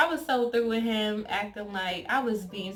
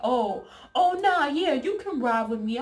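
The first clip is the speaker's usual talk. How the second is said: higher, louder startled stammer; flustered backtrack; 4 semitones higher, 5 dB louder than usual. Retold or imitated. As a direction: scramble to fix it.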